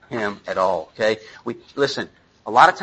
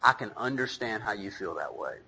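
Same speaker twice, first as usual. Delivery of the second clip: put-on softer, patient reassurance to a teen; calm him down kindly, quietly; soft fatherly understanding; gentle understanding parent; 4 semitones lower, 8 dB quieter than usual. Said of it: "I will say".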